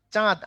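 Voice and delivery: "চাঁদ" with a lengthened aa; long vowel. Shown as a demonstration. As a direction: hold the আ in "চাঁদ". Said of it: "আ লম্বা হইছে".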